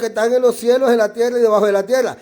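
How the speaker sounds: loud preacher reading Hebrew text; reading scripture. Shown as a demonstration. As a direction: read the verse with weight, pausing on Yahshua. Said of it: "En hebreo te lo voy a leer".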